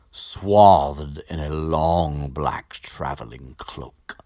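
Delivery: slow, hushed, savoring each word; dramatic whisper. Shown as a demonstration. Savoring Rowling's description of Malfoy, slow dramatic whisper. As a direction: whisper it like a spooky storybook line. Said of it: "Good words there, uh, Rowling".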